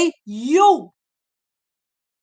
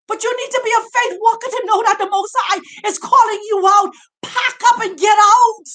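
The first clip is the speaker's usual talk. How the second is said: emotional; 3 semitones higher, faster than usual. Real, not acted. Preacher overcome urging flock to pack up, tearful cry. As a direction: voice catching with real emotion. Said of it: "I'm getting all, um, emotional right now".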